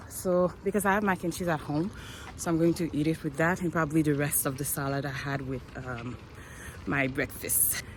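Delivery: breathless from walking; gasping between phrases; out of breath. Real, not acted. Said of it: "My God, I'm out of breath".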